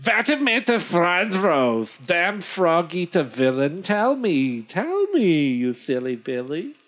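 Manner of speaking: put-on German-accented cursing, swooping in pitch; Jacob. Hunter insults the Frenchman and demands answers, German accent. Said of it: "Jacob says".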